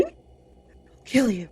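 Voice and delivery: sleep-talker's threat climbing into a scream; mock screaming threat. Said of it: "screaming, "I'll kill you".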